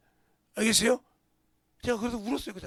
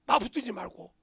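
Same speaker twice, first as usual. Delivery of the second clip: building to a loud, much higher plea; desperate shout; 11 semitones higher, 16 dB louder than usual. Retold or imitated. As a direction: beg them at full cry. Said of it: "이 소리요". (간절하게 목 놓아 외치는 소리)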